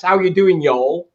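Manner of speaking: a light put-on y'all accent; cheery mock American drawl; mock Southern American. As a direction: greet them like a hammed-up Southern tourist. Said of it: "like one of those Dick Van Dykes".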